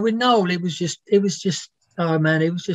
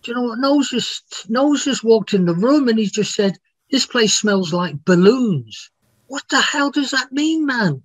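higher, mock rock-singer voice; imitating a rock singer; 5 semitones higher than usual. Journalist recalls a rock singer's odd remark about his brother, higher mock voice. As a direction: pitch it up and ham up the rock star. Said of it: "Remember him saying to me once".

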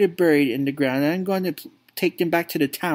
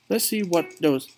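lowered, gloating dad voice; scheming drunk father; 6 semitones lower than usual. Acted. Father gloating to his son about stolen wreaths, lowered sly voice. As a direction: sneer at the town like a bitter old drunk. Player voices Dad's game lines.

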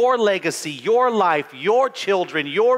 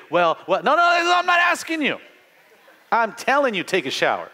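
firm parent; 5 semitones higher than usual. Retold or imitated. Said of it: "And they wanna debate".

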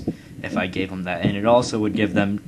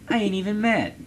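much higher put-on squeaky meme voice; 13 semitones higher than usual. Mocking Portugal with a high meme voice.

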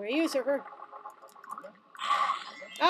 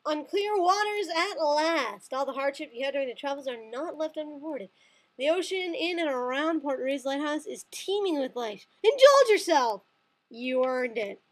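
game text read. Acted. Gamer reads the level intro to viewers, mildly dramatic. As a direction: read it like a travel brochure narrator.

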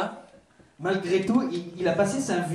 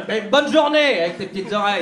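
mocking weirdo voice; 5 dB louder than usual. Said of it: "Imagine l'espèce de fou".

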